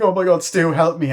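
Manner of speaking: high, loud cry for help; mock panicked plea. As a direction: act out a frantic plea to a friend.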